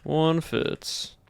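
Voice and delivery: put-on southern accent. Streamer chatting with chat in a put-on Southern accent. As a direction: keep a Southern US accent going the whole stream. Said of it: "It's a southern accent".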